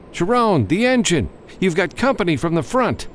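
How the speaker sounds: shouting an alert over the wind; urgent shout. A narrator's reading. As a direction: yell the warning.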